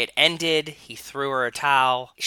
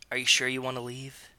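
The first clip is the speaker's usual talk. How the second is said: soft, quick, hushed question; barely a whisper; 6 dB quieter, faster than usual. Acted. Boyfriend asking his girlfriend, in a soft near-whisper. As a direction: ask it under the voice, quickly. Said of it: "His voice was barely a whisper".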